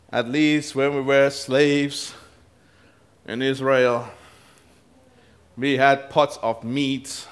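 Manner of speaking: slow, stretched-out grumbling; wistful mock moan with long pauses; mock complaining. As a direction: imitate grumblers dragging out each phrase. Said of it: "Complaining, murmuring, saying".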